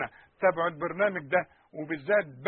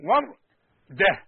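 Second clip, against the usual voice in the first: وردة drawn out, with the و held clearly; teacher slowing down وردة; slow, careful وردة; 7 dB louder, much slower than usual. Shown as a demonstration. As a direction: stretch the و of وردة. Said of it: "الأول و".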